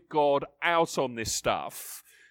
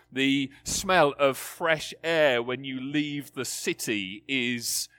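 savouring; 2 semitones lower, slower than usual. Acted. Savouring sensory examples.

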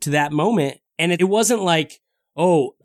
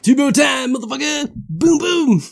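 hyped cheer; 9 semitones higher than usual. Real, not acted. Friend hyping the Tebow moment, high yelling cheer. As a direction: shout it like a touchdown.

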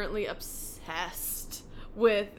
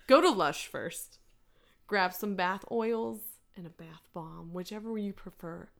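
Delilah voice. Pretend. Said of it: "I'm gonna go Delilah on you".

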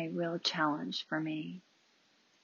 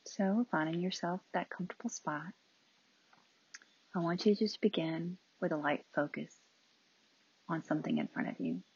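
unhurried meditation guidance with long pauses; calm, spacious instructions; guided meditation. Real, not acted. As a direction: ease listeners into stillness.

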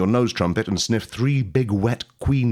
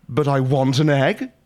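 pleading queen; 5 semitones higher, 3 dB louder than usual. Acted. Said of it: "you say, hoping ... urgency".

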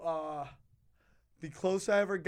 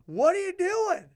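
high, loud confronting shout; mock outrage; 12 semitones higher, 5 dB louder than usual. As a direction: call him out loudly. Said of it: "I go".

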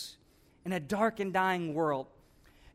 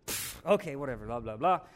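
dismissive mumble; 5 semitones lower than usual. Acted. Jonah brushing off God.

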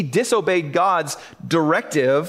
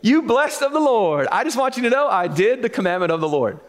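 hammed-up smug boast, higher and brighter on hey; smug Saul; 4 semitones higher than usual. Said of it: "Notice how he responds to Samuel".

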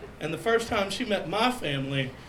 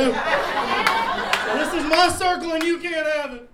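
possessive declaration; 7 semitones higher, slower than usual. Acted. Defending his circle.

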